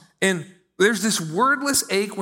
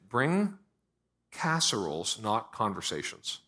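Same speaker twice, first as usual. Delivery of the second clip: soft punchline; 7 semitones lower, 8 dB quieter, slower than usual. Shown as a demonstration. Punchline delivered softly.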